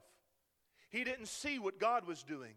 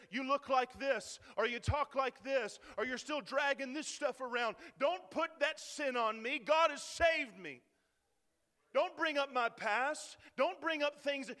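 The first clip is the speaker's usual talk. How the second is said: accusing voice; 5 semitones higher, 5 dB louder than usual. Retold or imitated. Critics attacking a believer, loud and indignant. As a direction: throw the accusations back hard. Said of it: "and they say".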